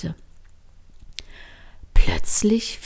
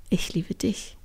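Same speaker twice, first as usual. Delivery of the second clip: soft, half-whispered declaration; quiet answer; 7 dB quieter than usual. A narrator's reading. Trini answers Line's love, quietly. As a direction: answer softly and tenderly. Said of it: "antwortete Trini leise".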